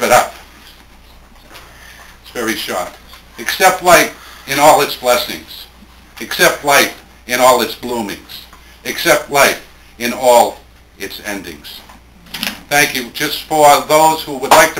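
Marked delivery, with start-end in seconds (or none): 3.4-11.8 poem reading. Acted. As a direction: let the repeated line settle and fall each time. Reads final short poem.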